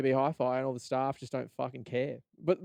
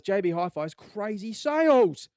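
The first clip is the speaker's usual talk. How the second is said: higher, slow ad voice; announcer hype; 7 semitones higher, slower than usual. Retold or imitated. Catalog slogan in a mock announcer voice. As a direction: pitch it like a TV ad. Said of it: "it's always".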